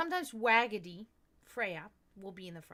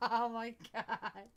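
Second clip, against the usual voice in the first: loud laugh; 9 dB louder, slower than usual. Real, not acted. Laughing at her own story.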